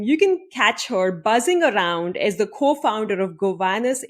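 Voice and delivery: scripted host introduction, building in energy; guest introduction read. Real, not acted. Host introduces her beloved friend to listeners, emphatic presenter read.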